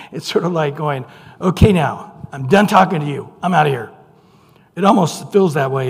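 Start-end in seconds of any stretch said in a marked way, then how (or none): 1.4-3.9 mildly irritated. Retold or imitated. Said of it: "he's a little irritated".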